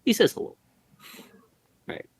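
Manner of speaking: high strained zombie voice. Acted. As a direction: groan it like an undead. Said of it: "he hears this zombie voice".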